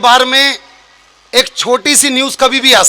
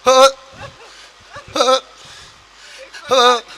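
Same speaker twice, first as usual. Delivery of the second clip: out of breath; 5 dB quieter, slower than usual. Retold or imitated. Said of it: "सांस फूल रहे हैं".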